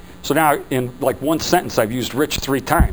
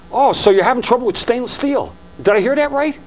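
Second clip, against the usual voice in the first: attentive repeating back; 9 semitones higher than usual. Shown as a demonstration. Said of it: "it begs for you to say".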